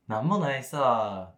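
lightly imitated Okinawan lilt, drawn out; Okinawan dialect. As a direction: say it with a slow, easy Okinawan lilt. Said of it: "沖縄".

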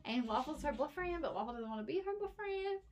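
high silly pet voice; dog voice. Acted. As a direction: speak as the goofy dog. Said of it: "I also talk in my dog's voice sometimes".

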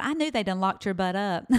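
teasing through a laugh, Meemaw's voice. Retold or imitated. Meemaw teasing her about jail, laughing. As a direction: let the laugh run under the line.

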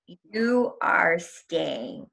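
very slow, stretched-out pronouncement; deep voice of God. Retold or imitated. God answering her plea, slow deep voice. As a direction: lightly imitate a slow, deep divine voice. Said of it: "deep voice".

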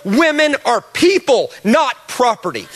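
rising, ringing declaration, slowing on women are people; a preacher's climbing announcement; soapbox proclamation. Retold or imitated. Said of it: "standing on a soapbox saying".

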